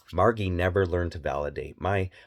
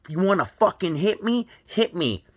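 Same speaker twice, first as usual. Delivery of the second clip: mock angry swearing; 10 semitones higher than usual. Imitating a toxic parent daring her husband, a mock angry yell. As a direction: hurl the dare at the husband in a put-on voice. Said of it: "and I swore".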